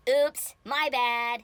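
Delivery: very slow, stretched-out mock apology; drawn-out oops. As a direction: drag it out playfully.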